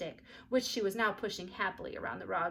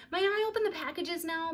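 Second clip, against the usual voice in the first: put-on high, eager girl's voice; eager question; 10 semitones higher, 4 dB louder than usual. A narrator's reading. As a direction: ask it full of excitement. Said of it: "Beezus asked eagerly".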